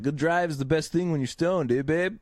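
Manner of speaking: lightly imitated Canadian accent. Stoned guy on a forklift answering a woman, mock Canadian accent. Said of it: "his accent is just".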